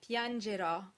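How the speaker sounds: piangerò stressed on an open final "aw", E kept closed. Shown as a demonstration. Teacher modelling an Italian example, piangerò with open final O. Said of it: "all stressed final O's are open".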